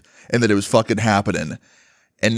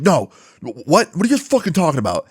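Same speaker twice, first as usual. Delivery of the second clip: rushed, higher-pitched mock protest; indignant disbelief; 5 semitones higher than usual. Accused student answering his classmates, indignant disbelief. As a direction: blurt it out in baffled denial.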